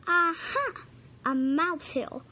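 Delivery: triumphant little dog cry; excited discovery. Acted. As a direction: pounce on the find with glee. Dog finds a mouse hill.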